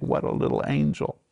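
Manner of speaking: put-on breathy doting whisper over a baby; mock-sweet baby adoration; cooing thought. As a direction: coo it like an adoring parent. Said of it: "you look at it and you think".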